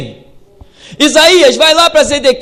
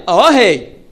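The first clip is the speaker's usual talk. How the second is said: ironic; slower than usual. Retold or imitated. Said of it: "Não me fale com ironia".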